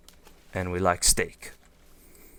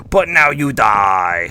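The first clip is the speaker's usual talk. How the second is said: louder, slow, hammed-up villain threat; mock villain; 3 semitones higher, 10 dB louder, slower than usual. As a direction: play a cartoon villain turning on them.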